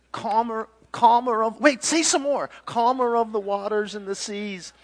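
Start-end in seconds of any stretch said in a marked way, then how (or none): 0.1-1.6 high, loud groping for titles; acted loud invocation; fervent prayer. Sailors' improvised prayer continues. 2.6-4.7 high, loud proclamation; acted loud invocation; fervent prayer. Sailors' improvised prayer continues.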